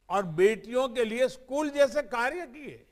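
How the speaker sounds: usual speaking voice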